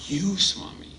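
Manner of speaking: tender answer. Retold or imitated. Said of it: "the boy's voice was so soft and so tender".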